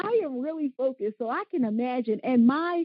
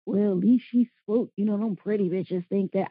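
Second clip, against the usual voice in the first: other guy; 5 semitones lower than usual. Retold or imitated. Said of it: "the other guy gonna say".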